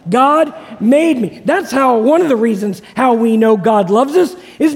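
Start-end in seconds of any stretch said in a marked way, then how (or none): 0.1-1.4 slow, loud call to repeat; slow rallying shout from the pulpit; louder repeat. Shown as a demonstration. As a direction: say it louder with the crowd. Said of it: "One more time".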